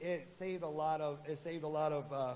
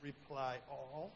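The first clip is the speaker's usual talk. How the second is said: mock determined; 4 semitones lower, 7 dB quieter, much slower than usual. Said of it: "I'm like".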